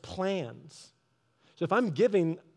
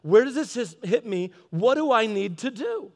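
meditative self-questioning; 5 semitones higher, 4 dB louder than usual. Shown as a demonstration. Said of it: "meditate on it and be like".

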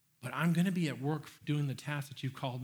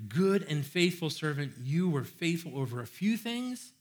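enthusiastic; 2 semitones higher than usual. Retold or imitated. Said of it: "he is just like".

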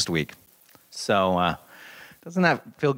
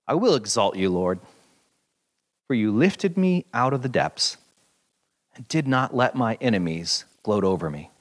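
measured, earnest reading of a psalm; scripture reading. Acted. Pastor reading Psalm thirty to the congregation, earnest scripture read. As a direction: read it like holy words to the congregation.

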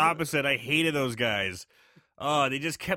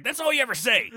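exasperated retort; 9 semitones higher, 4 dB louder, faster than usual. Retold or imitated. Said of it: "he's just like".

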